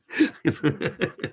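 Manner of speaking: high, short burst of laughter. Real, not acted. Amused by the Shantak question, laughing.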